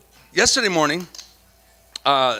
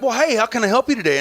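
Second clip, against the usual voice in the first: lightly raised, friendly operator voice; imitating Debbie; 6 semitones higher than usual. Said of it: "she's like".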